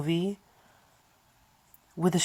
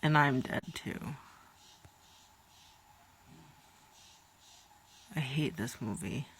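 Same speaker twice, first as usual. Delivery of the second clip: mock despair; 2 semitones lower, 12 dB quieter than usual. Real, not acted. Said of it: "drive me into a depression".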